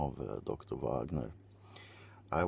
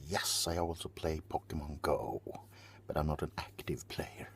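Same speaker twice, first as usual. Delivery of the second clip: whispering. Acted. ASMR whisper aside.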